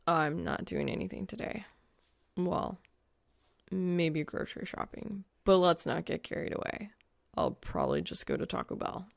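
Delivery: a hint of a dry guy's voice; lightly voiced young man. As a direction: answer her dry and unbothered. Narrator voices Soul, offhand.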